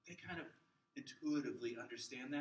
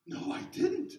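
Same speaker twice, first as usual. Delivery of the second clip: put-on very high, loud little kid voice; a small child's reply; child answering; 10 dB louder, slower than usual. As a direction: squeak it like a four-year-old. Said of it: "I mean, I".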